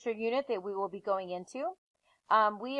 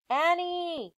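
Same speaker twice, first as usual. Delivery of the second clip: shout; 8 semitones higher than usual. Acted. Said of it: "he shouted again".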